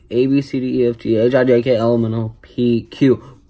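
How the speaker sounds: burped letters; talking while burping. Real, not acted. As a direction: burp out the letters. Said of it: "burping the alphabet".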